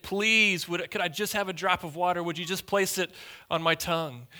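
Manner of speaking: lightly acted plea, starting high; begging, pleading. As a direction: plead as the rich man, mildly dramatized. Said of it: "he begged, he pleaded".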